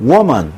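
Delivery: 'woman' with a clear o vowel, falling; singular demo. Shown as a demonstration. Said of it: "마찬가지로 여자는". ('woman' 단수형 또렷하게)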